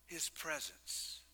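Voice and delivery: hushed preaching. Acted. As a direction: draw them in quietly. Soft reflective preaching.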